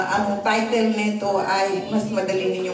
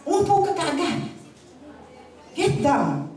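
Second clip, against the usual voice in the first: father's urgent call; 7 semitones higher than usual. Retold or imitated. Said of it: "biglang sumigaw ang ama".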